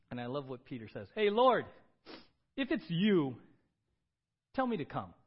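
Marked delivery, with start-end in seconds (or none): 1.1-1.6 loud, high call across the water; Peter calling out. Retold or imitated. Peter calling to Jesus on the water, loud and high. 2.6-5.1 loud call. Retold or imitated. Voicing Peter calling.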